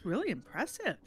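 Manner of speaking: sarcastic praise. Real, not acted. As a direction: say it mockingly impressed. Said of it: "Your sarcasm is much appreciated".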